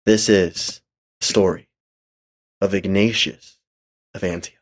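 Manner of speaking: dramatic title narration. A narrator's reading. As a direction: announce the title in solemn, separated phrases.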